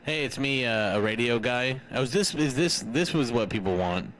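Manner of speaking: radio voice filter; processed radio guy voice; over a radio. Pretend. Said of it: "Say something a radio guy would say".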